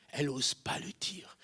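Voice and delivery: unvoiced, confiding whisper. Real, not acted. Preacher whispering her hidden faith to the crowd. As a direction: drop to a secret whisper.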